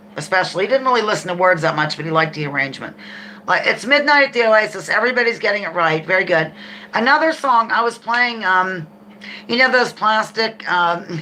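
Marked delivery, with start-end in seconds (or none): none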